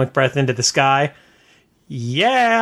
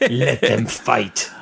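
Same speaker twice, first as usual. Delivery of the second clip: movie line quote; 4 semitones lower, much slower than usual. Retold or imitated. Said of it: "he had the best line".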